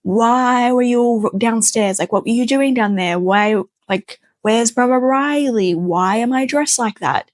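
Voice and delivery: a hint of the pushy stepmother pestering; rapid-fire questions. Stepmother grilling Casey with questions, lightly voiced high nagging. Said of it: "a million questions a minute".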